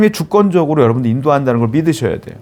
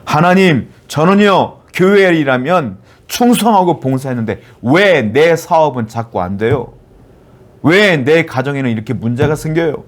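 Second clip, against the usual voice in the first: mildly plaintive protest to God; acted, reproachful questioning; resentful complaint. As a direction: imitate an aggrieved churchgoer. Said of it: "라고 늘 원망하는 분들이 있어요".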